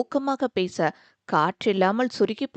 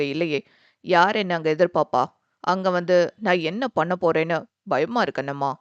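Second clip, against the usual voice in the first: worried; 4 semitones lower than usual. Acted. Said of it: "மனதிற்குள் எழுந்த கலக்கத்தை".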